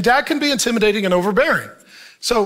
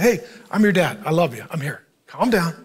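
watched tone, calming; 3 semitones lower than usual. Retold or imitated. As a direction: soothe a worked-up child gently. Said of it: "I'd watch my tone, not raise my voice".

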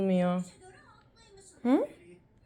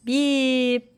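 playful beep; 3 semitones higher, 4 dB louder than usual. Pretend. Beep ending the game.

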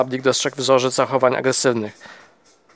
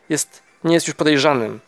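through clenched teeth; 2 semitones higher than usual. Acted. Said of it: "Mówi przez zaciśnięte zęby, bardzo spokojnie".

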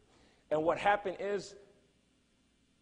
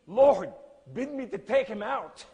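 loud, slow, high-pitched plea; crying out; 6 semitones higher, 9 dB louder than usual. Retold or imitated. Preacher retells praying as Muslims gather round, crying out. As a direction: cry out to God, drawing it out. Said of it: "I'm crying to the Lord".

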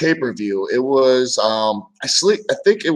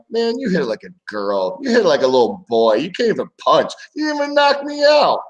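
teasing taunt; 5 semitones higher than usual. Retold or imitated. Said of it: "every time I'm like".

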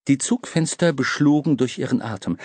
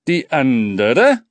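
Schaffner schlägt vor; 2 semitones higher, 7 dB louder, much slower than usual. A narrator's reading. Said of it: "schlug der Schaffner vor".

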